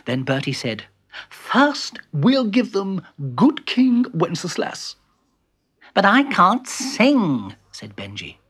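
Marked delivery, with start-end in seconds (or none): 1.3-4.9 high, measured announcement; announcing Bertie. Acted. Bertie choosing the first carol, high deliberate announcement. 5.9-7.5 raised, drawn-out objection; complaining protest. Acted. Benji objecting to singing, drawn-out complaint.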